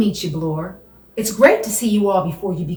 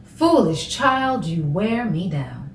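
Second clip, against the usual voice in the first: cold rasping evil emperor; 3 semitones lower, slower than usual. Acted. Storm drained, slow.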